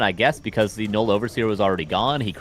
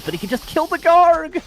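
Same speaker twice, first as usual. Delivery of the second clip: sudden high yell, much louder; excited shout; 6 dB louder than usual. Real, not acted. Caster sees a big play.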